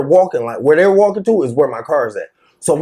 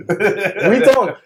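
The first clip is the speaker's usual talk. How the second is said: drawn out, slow and laughing; slow mocking repeat; slow laughing taunt; 4 semitones higher, slower than usual. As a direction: stretch it out, still chuckling. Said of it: "just going like".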